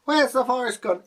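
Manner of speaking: high, loud startled shout; a villager calling out in shock that the forest has vanished, high alarmed shout; alarmed cry. Retold or imitated. Villagers crying out in story.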